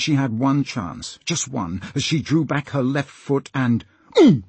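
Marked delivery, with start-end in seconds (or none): 4.2-4.4 pained grunt. A narrator's reading. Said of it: "Slank grunted in pain".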